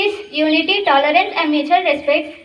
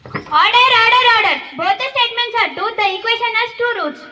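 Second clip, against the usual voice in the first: stern judge; 6 semitones higher than usual. Acted. Judge calls order in skit.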